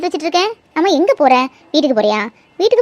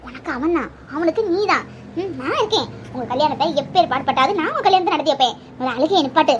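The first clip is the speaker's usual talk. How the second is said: lower, softer soothing voice; calm her down gently; aunt quietly consoling the weeping girl; reassuring; 4 semitones lower, 3 dB quieter than usual. Acted.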